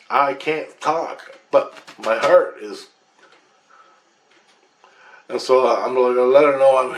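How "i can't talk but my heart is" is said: slow, drawn-out words; halting retelling. Retold or imitated. Teller recalls lying wounded unable to speak, slow and halting. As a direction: stretch each word, slowly. Struggling to speak while dying.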